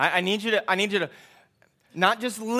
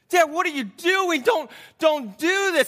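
put-on mildly pleading boy, pitched up; raised, urgent retold plea; 5 semitones higher than usual. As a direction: plead with a parent to stop. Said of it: "the boy is just pleading with him".

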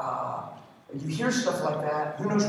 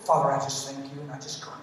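a hint of a hushed, churchy prayer voice; mock-pious prayer tone, much softer; lightly spoofing a spiritual prayer voice; intercession voice; 4 semitones lower, 6 dB quieter than usual. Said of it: "We put on our intercession voice".

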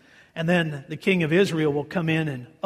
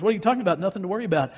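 incredulous; 2 semitones higher, much faster than usual. Acted. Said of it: "Again, Phil's paraphrase".

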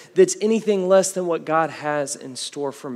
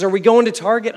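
put-on child's voice; 6 semitones higher, 8 dB louder, faster than usual. Four-year-old daughter in the car.

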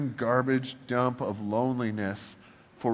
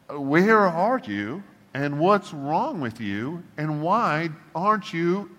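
slow, higher-pitched, exasperated questioning; indignant demand; 4 semitones higher, slower than usual. Acted. Preacher confronting God over his inaction, indignant demand. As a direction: draw out each challenge, pitched up in disbelief.

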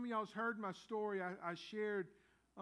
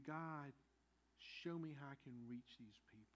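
low, hushed prayer, softer than the preaching; humble prayer; 5 semitones lower, 8 dB quieter than usual. Shown as a demonstration. Preacher modelling our prayer to reach people, hushed and humble. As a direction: pray it quietly and low, pausing after the address. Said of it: "Our prayer should be".

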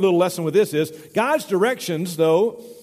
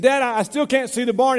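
higher-pitched mock calling to Dad; retold holler; 6 semitones higher, 3 dB louder than usual. Farmer's son calls back to his father from the tree, mock holler. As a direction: imitate a boy calling out, only slightly louder. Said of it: "he hollered at me".

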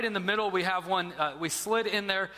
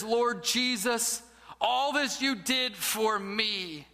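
slow, sincere prayer on the edge of tears; humbled, breaking; slower than usual. Acted. Man finally moved before the crucifix, slow and broken. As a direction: let the pride crack as the words land. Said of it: "he bursts into tears".

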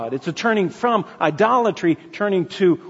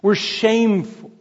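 ordinary talk

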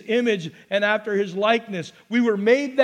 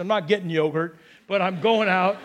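ordinary delivery

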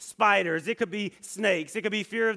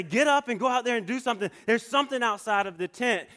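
scared plea; 5 semitones higher, faster than usual. Retold or imitated. Scared boy pleads with brother.

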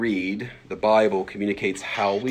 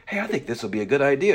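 eager suggestion; 6 semitones higher, 3 dB louder, faster than usual. Acted. Acting people proposing their idea.

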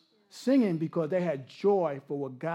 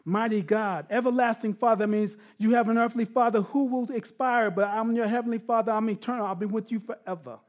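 forceful preaching; 3 semitones higher, 4 dB louder than usual. Real, not acted. Expounds scripture at raised force.

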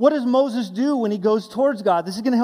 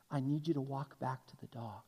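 much softer, gentle instruction; soft and calm; 8 semitones lower, 15 dB quieter than usual. Retold or imitated. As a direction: speak softly to a scared child. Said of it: "softly says to this little girl".

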